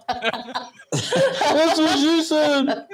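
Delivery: said through laughter; laughing. Real, not acted. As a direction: laugh the words out. Laughing at an innuendo.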